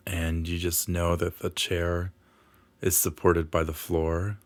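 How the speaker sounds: unhurried meditation guidance with long pauses; guided meditation. Acted. Healer guiding listeners through a grounding exercise, guided meditation. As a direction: lead them gently through it, leaving space after each phrase.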